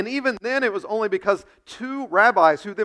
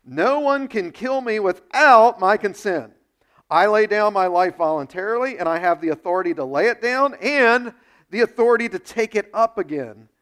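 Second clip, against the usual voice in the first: bold proclamation; 6 dB louder than usual. Retold or imitated. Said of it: "he says".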